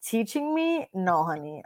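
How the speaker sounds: cool, sarcastic brush-off; sassy put-down. Retold or imitated. Putting a rude client in his place, sassy.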